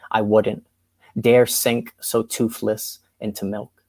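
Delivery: measured spoken word poem; poetry reading. Acted. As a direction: read it like a slam poet. Reads her poem aloud.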